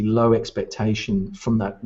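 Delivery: usual speaking voice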